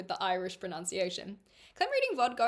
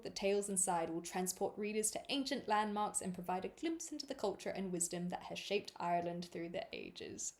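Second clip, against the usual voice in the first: measured, quieter reading voice; book blurb read-aloud; 5 dB quieter than usual. Acted. Streamer reading a book's blurb to viewers, measured read-aloud.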